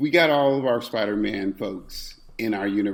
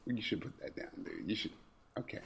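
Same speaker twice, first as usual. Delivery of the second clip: low, very soft murmur; hushed aside; 7 semitones lower, 14 dB quieter than usual. Pretend. Host discreetly warning a dude while live, hushed aside. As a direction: keep it under your breath, nearly whispering.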